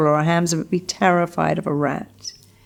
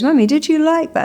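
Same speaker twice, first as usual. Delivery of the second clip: put-on much higher, a small girl asking; little daughter; 10 semitones higher, 3 dB louder than usual. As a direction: imitate a little girl asking her mum. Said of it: "she goes".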